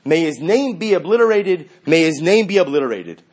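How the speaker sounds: loud anguished cry. Retold or imitated. Chassid leaving the mikvah cries out loudly. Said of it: "he cries out".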